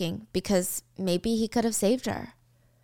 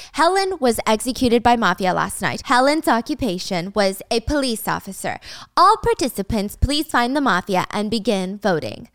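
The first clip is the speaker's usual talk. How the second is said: blaring announcement, a bit louder; intercom announcement; 4 dB louder than usual. Acted. Intercom announcing the overnight death to students, mock blaring announcement. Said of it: "the intercom starts blaring".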